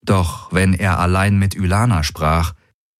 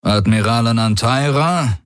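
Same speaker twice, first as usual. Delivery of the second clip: with satisfaction; 4 semitones higher than usual. Acted. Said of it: "mit hörbarer Befriedigung".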